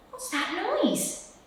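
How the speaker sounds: high, slow squeak; a tiny mouse squeaking in alarm. Acted. Mouse hears the noise, high squeaking question. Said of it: "he squeaked".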